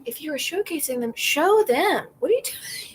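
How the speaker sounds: rising, incredulous scolding; exasperated retort. Retold or imitated. Scolding a picture's tiny Polaroid, incredulous. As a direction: demand she show them, loud and high. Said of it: "I'm like".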